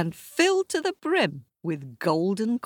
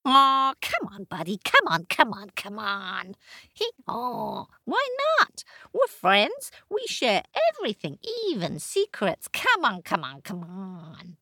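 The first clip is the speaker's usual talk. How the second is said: much higher wheedling bray; coaxing donkey; 6 semitones higher than usual. Acted. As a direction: plead with your friend.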